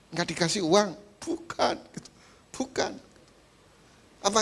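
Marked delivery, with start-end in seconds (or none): 1.2-2.9 higher, a lightly voiced wife saying no; a hint of a fussy wife brushing it off; wife's denial. Wife waving off the pastor's guess, light high denial.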